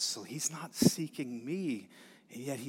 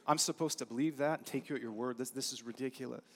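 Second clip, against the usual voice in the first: quick, scoffing doubt; fast incredulous scoff; 4 dB quieter, faster than usual. Retold or imitated. Zechariah scoffing at the angel's promise, fast and incredulous. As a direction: rattle it off in disbelief. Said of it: "he's just saying, like".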